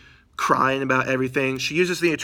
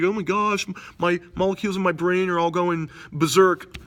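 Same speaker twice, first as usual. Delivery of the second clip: higher, frantic nerdy voice; higher, panicked scientist voice; panicky Bruce Banner; 4 semitones higher than usual. Retold or imitated. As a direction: freak out like a dazed scientist. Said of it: "He's like".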